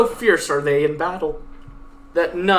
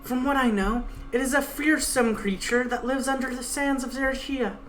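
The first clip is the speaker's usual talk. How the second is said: lightly voiced stern guide, pitched a bit higher; 8 semitones higher, 4 dB quieter than usual. Guide threatening the Pegasus at knifepoint, lightly voiced stern menace. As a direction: threaten coldly as the blade-holding guide.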